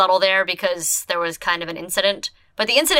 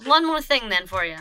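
gangster mob doll; 4 semitones higher than usual. Acted. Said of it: "Why did you talk like a bird all of a sudden?".

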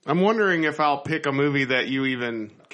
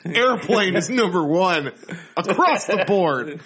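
laughing; 4 semitones higher than usual. Real, not acted. Laughing while joking.

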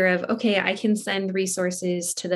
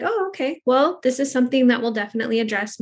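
mild surprise; 3 semitones higher, faster than usual. Retold or imitated. Retold reply to dismissive mom.

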